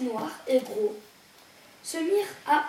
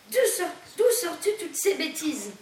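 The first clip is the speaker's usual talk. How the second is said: louder and higher, firm meow of a retort; energetic scolding; 5 semitones higher, 4 dB louder than usual. Acted. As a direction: snap back energetically at the nonsense. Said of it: "miaula énergiquement Zorba".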